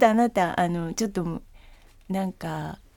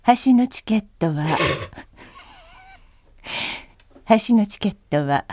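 flight announcement. Shown as a demonstration. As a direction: announce calmly to passengers. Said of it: "飛行機アナウンス風で".

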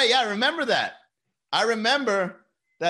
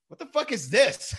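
higher, mocking disbelief; imitating bully friend; 9 semitones higher, 3 dB louder than usual. Bully friend grabbing the egg baby, mock taunt. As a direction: toss it out high and taunting. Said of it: "he goes".

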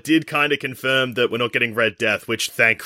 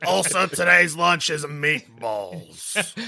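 gruff lunch lady; 2 semitones higher, much slower than usual. Pretend. Continuing the lunch lady bit.

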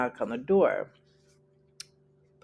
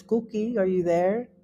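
grandmother calling; 7 semitones higher than usual. Retold or imitated. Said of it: "definitely was the voice of her grandmother".

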